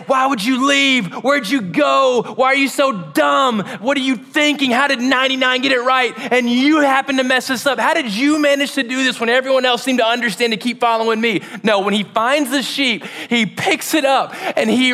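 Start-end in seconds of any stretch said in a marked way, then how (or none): 0.1-11.4 mock scolding shepherd. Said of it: "or yell at it".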